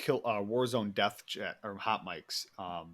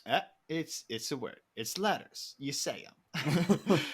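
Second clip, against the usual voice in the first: imitating podcaster; 4 semitones higher, slower than usual. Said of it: "He's like".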